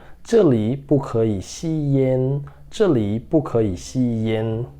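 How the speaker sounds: very slow, every syllable clear; slow model reading. Shown as a demonstration. Teacher modelling the sentence for students, very slow. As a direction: read it slowly for students to repeat. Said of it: "vamos para a leitura".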